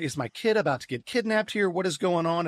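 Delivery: put-on a dad wondering if his baby is being kidnapped; father caught off guard by a grabbing grandmother, alarmed; alarmed disbelief. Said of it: "I'm like".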